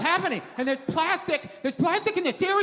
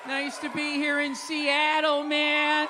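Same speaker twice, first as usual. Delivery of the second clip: timid pushback; slower than usual. Retold or imitated. Husband barking back slowly at his wife's party. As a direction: drag it out like a hesitant guest. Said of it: "you got a little something like".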